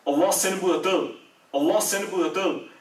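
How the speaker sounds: mild cry out. Retold or imitated. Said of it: "åbner døren til moskeen og råber".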